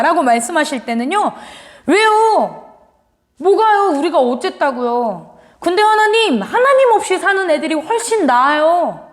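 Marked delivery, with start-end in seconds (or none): 1.9-9.1 a mock sassy retort to God; fierce and cold. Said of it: "라고 무섭게 막 차갑게 대답하는 거예요".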